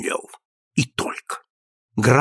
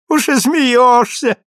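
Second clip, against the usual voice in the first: repeated higher and louder, teasing hurt; sharper mock reproach; 11 semitones higher, 5 dB louder, slower than usual. A narrator's reading. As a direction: press the reproach harder. Повтор упрёка. (укоризненно, настойчивее)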